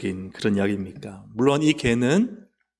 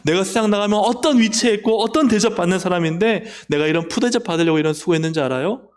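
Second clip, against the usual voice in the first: mock angry complaint; 6 semitones higher than usual. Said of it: "예수님께 화를 내요".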